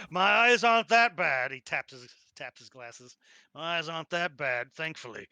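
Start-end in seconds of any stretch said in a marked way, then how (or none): 0.1-1.5 laughing. Real, not acted. Laughing off being called blind.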